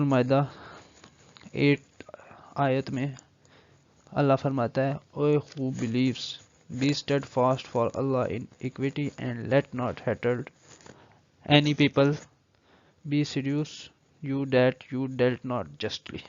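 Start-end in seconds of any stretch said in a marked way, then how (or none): 5.2-16.2 slow, deliberate reading of a verse; measured scripture reading; slow formal recitation. Acted. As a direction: read every word slowly and solemnly. Reads Quran verse in English.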